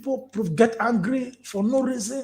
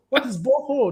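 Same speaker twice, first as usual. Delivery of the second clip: higher voice, lightly imitated puzzled kid; a hint of a curious child; questioning child; 6 semitones higher than usual. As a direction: lightly play a child asking. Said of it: "They'll be asking".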